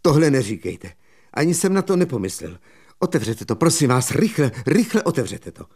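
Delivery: rychle a vyšším hlasem, v panice; naléhavě prosí, ať to otevře; vyděšené naléhání. Acted. (mladík v panice prosí vypravěče)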